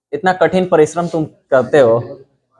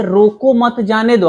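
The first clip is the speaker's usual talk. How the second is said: slow, deliberate "रोको मत जाने दो"; phrasing of रोको मत जाने दो; 4 semitones higher, slower than usual. Shown as a demonstration. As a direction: weigh out each part of "रोको मत जाने दो". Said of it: "सेंटेंस एक ही है but तरीका". ("रोको मत जाने दो" धीरे, तौलकर)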